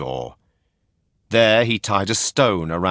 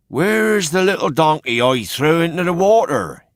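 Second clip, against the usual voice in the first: much higher, louder startled cry; cried out; 10 semitones higher, 7 dB louder than usual. A narrator's reading. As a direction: call out in disbelief. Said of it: "he cried".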